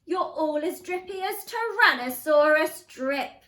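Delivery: loud, emphatic telling-off; scolding dad. A narrator's reading. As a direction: rebuke the family, building in volume. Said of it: "and Dad said".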